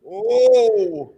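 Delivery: very high, loud exclaimed whoa; real thrill at a big hit, loud and high; excited whoa. Real, not acted. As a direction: cry out in thrilled awe. Reacting to a fight.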